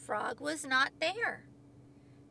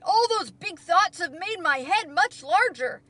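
loud, high-pitched delighted announcement; Toad's excited cry; 6 semitones higher, 10 dB louder than usual. A narrator's reading. Toad tells Frog the hat fits now, crying out excitedly. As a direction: burst out with good news. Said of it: "he cried".

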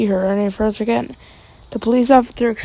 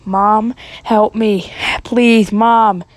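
loud desperate cry for mom; screamed for help; 5 dB louder, much slower than usual. Retold or imitated. Kid screaming for mom while dragged away. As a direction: yell for mom as loud as you can. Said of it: "I screamed as loud as I could".

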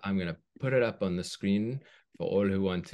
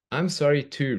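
sorry twin; 7 semitones higher, 7 dB louder than usual. Acted. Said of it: "replied Dopamine".

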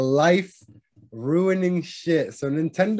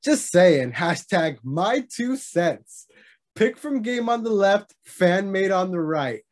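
reading a tweet. Retold or imitated.

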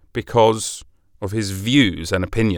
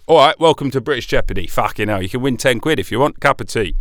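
hammed-up British host; faster than usual. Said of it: "I'll just be a Brit".

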